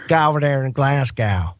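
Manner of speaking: put-on a light, half-hearted Glasgow accent; mock Scottish accent. Cohost correcting the host's accent with his own mild Scottish accent. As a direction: show them how Glaswegians sound, lightly. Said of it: "no, it's more like this".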